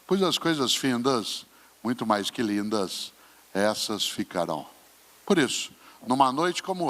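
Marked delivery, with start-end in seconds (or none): 0.1-4.7 slow, falling poem reading; poem recitation. Shown as a demonstration. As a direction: recite it again, slow and weighty. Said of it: "Olha só".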